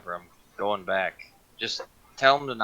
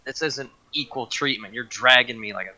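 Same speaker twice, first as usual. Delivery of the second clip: indignant protest; 4 semitones higher, 3 dB louder than usual. Acted. Protesting being dragged by shirt.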